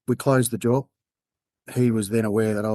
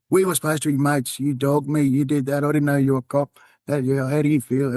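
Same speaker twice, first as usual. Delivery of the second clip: raised-pitch mock accusation, imitating a drunk mate; imagined drunk spray; 4 semitones higher than usual. Undercover cop imagines the betrayed mate, mock angry spray. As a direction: voice the hurt mate having a go at you. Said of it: "he's probably gonna give me a spray".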